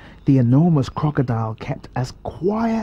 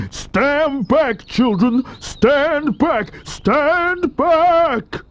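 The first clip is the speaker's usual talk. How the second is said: shouted; 8 semitones higher, much slower than usual. A narrator's reading. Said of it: "a big, deep voice from the jungle shouted".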